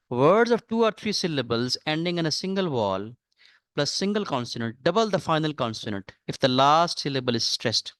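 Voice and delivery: very slow, deliberate rule reading; dictating a rule. Acted. Teacher slowly dictating a spelling rule to students. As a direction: spell the rule out word by word for the class.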